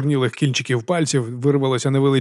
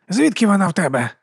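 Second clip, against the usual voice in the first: higher-pitched curious character voice; idly curious; 6 semitones higher than usual. A narrator's reading. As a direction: ask out of mere curiosity. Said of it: "запитала Віга не більш ніж як з цікавості".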